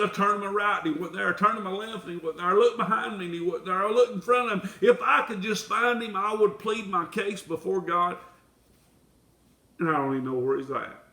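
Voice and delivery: fast, urgent searching lament; Job's lament. Acted. Job laments that he cannot find God, fast and urgent. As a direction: pour out Job's desperate search. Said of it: "Job said".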